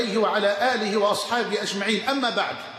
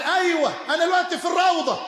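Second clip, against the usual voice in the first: mock phone caller; 8 semitones higher, faster than usual. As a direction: ham up a man chatting on his phone. Mocking a phone caller in mosque. (تقليد ساخر لمتصل بالهاتف بصوت عالٍ)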